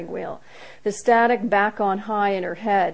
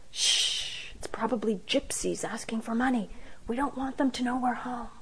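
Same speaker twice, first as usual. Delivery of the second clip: hushed; 3 semitones higher, 5 dB quieter than usual. A narrator's reading. Hiding from the doorbell.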